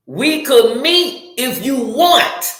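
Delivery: slow, lilting take-it-or-leave-it offer; mock wishy-washy suggestion; noncommittal offer. Shown as a demonstration. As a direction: drag it out, rising on WANT. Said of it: "Don't talk to me like that".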